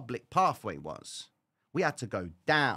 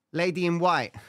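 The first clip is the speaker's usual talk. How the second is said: broken simple English; 5 semitones higher, 4 dB louder than usual. Retold or imitated. Tourist speaking broken English to the bar lady, plain and simple. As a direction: keep it to bare words. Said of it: "I had to speak like some backwards person".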